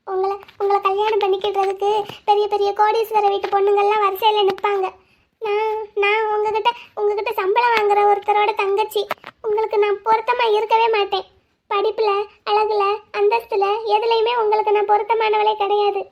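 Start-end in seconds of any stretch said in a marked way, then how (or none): 5.4-16.0 put-on a tearful girl refusing her lover; tearful lament. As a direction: plead her unworthiness through tears. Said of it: "அழுதுகிட்டே இருக்க".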